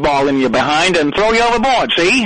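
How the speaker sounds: put-on gangster voice, old movie style; tough-guy mobster talk, see; thirties mob guy. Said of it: "like a thirties mob guy".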